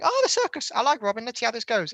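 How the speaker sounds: lightly acted pleased anticipation; mock delight. Viewer reacting to the circus scene, mock delight. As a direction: start high-pitched on a pleased "oh". Acting out hopeful first reaction.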